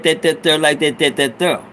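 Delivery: "there" said as "thurr"; clipped "that there" slang. Shown as a demonstration. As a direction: say "that there" as slurred "dat-dat-thurr". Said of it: "Y'all can't say that".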